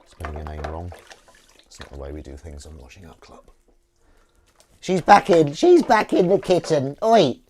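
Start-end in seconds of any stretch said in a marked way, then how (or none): 4.8-7.4 high, loud shout; excited calling out. Real, not acted. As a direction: holler it out at the cat's return. Calling out as cat returns.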